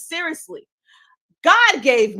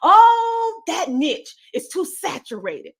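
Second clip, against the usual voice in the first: mocking quote; 6 semitones higher, 5 dB louder, slower than usual. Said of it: "I can't stand when they say".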